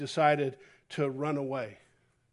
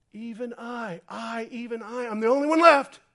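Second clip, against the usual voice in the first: mock self-pity; 6 semitones higher, 6 dB louder than usual. Mocking Elijah's self-importance.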